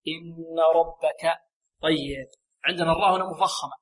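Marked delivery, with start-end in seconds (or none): 0.1-1.4 long nasal hum on the nun of إن before ربك; full ghunnah. Shown as a demonstration. Teacher models the complete ghunnah for students, the nun of إن held long and nasal. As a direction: draw out the نّ of إن through the nose. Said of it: "هنا غنة أكمل".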